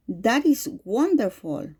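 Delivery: mild joy with varied intonation; joy expression. Shown as a demonstration. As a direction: let the pitch swing up on wonderful, happily. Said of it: "use a higher tone and variation of intonation".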